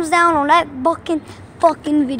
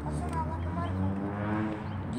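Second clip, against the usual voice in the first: way lower, monster-like cussing; second take in a deep growly voice; deep pitched-down voice; 16 dB quieter than usual. Pretend. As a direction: drop the voice as low as it goes. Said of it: "That's what I do when you cuss them out".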